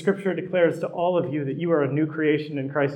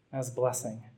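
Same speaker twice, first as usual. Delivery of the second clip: "As blessing" repeated much softer, lower, like a quiet afterthought; soft echo; 3 semitones lower, 10 dB quieter than usual. Shown as a demonstration. Preacher echoing his point to the congregation, soft and quiet. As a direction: let "As blessing" fall away softly. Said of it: "but as blessing".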